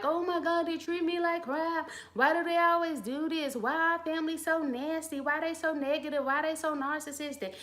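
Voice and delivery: mock complaining victim. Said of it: "complaining like".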